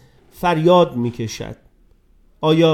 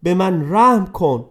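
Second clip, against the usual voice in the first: raised, pleading cry to God; 5 semitones higher than usual. Acted. Falling boy begging God for mercy, raised plea. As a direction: beg for mercy, high and urgent. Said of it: "بیلی فریاد زد".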